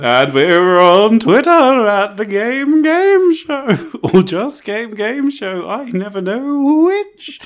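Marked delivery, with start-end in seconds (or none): 0.0-5.7 spooky voice. Acted. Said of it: "please do. It's a Halloween episode".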